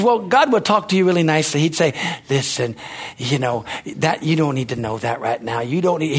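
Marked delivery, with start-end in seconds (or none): 2.3-6.2 soft, lower, gentle reassurance; God gently declining to answer; real nice and flowery. Retold or imitated. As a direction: speak kindly and softly, like letting someone down easy. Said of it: "he'll be real nice and flowery".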